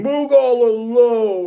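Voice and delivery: tearful blubbering. Voicing a hill giant who sits down at her tower: blubbering hill giant Moog. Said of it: "start blubbering and crying".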